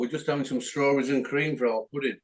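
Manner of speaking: talking through a mouthful; words round a bite of food; mouth full. Real, not acted. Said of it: "Sorry for talking with my mouth full".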